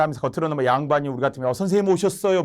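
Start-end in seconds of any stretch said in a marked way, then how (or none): 1.5-2.4 higher-pitched fawning welcome; butter up the teacher a little; lightly acted flattery; flattering greeting. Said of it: "막 띄워주는 것 같잖아요".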